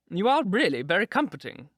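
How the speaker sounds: high, sing-song duchess; warbling. A narrator's reading. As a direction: warble it like a gushing old duchess. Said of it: "warbled the Duchess".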